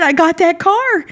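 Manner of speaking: high, emphatic statement falling on "car"; triumphant answer. Retold or imitated. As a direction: confirm it proudly, letting "car" drop. Retold triumphant answer to principal.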